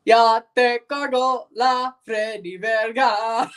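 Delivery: put-on slow gringo-accented Spanish; Spanish in a thick American accent. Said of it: "of course I sound like a gringo".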